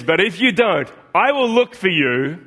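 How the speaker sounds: slow, deliberate Liam Neeson threat, lightly done; quoting Liam Neeson's threat. Retold or imitated. Pastor voicing the father threatening kidnappers, slow mock menace. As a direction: let each threat land, mildly. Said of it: "he says".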